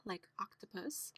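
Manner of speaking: soft whispered example word. Shown as a demonstration. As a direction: whisper octopus. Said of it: "this O is saying ah".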